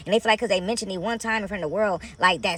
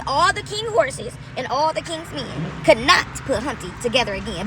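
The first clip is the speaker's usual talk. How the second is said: excited retelling; 4 semitones higher than usual. Real, not acted. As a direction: build the rhyme up excitedly. Rhyme line in excited preaching.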